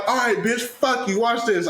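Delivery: heated retelling of a comeback; retold angry threat. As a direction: act out fed-up defiance, pitch lifted. Acted threat in a retold quarrel.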